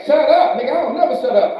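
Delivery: loud, fast mock comeback; mock girlfriend yelling back; snappy retort. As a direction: fire it back at him fast.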